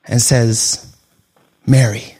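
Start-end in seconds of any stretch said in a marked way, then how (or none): 1.6-2.2 low, measured call of her name; deep, knowing address. Acted. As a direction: say the name low and simply, like a revelation. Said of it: "calls out her name".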